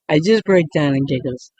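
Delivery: real giggles breaking into the words; laughing through it. Real, not acted. Vlogger cracking up trying ASMR, laughing. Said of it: "I keep breaking out in laughter".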